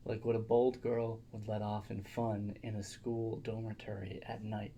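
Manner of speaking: reading aloud. Acted. Reads a letter aloud.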